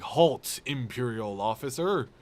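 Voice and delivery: a hint of a stern Vader; lightly voiced pompous Vader; mock Darth Vader. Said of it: "Darth Vader would be like".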